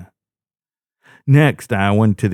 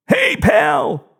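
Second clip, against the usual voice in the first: higher, gleeful call; eager hey pal; childlike excitement. A narrator's reading. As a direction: greet him like a thrilled kid. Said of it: "with an almost childlike excitement".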